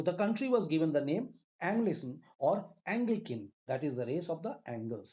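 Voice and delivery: slow, careful dictation of the book line; textbook reading aloud. Acted. Teacher to pupils, reading the book line slowly. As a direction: read the English text out slowly for the class.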